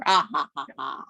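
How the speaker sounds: gleeful villain cackle, ha ha ha; evil laugh. Acted. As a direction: laugh like a cartoon bad guy. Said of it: "that was a pretty good evil laugh".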